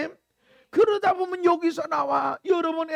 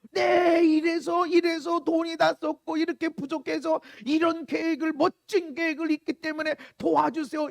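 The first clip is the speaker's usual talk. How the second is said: wordy pleading. Acted. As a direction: pile up reasons in a mock plea. Acting a needlessly wordy request to dad. (장황하게 사정하는 말투)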